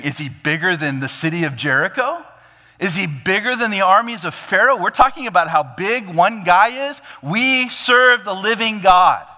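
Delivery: incredulous questions building high and loud; impassioned challenge. Acted. Believer rallying the army against one giant, impassioned.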